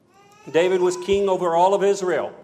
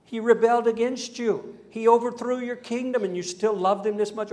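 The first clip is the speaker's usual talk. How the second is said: higher-pitched incredulous questioning; acted exasperation, pitched up; baffled reproach; 5 semitones higher than usual. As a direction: challenge him in disbelief. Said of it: "David's own family and army couldn't understand it".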